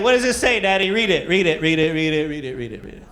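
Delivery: put-on high, loud insistent little kid; excited toddler. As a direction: pester Daddy like an eager toddler. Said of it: "He's like".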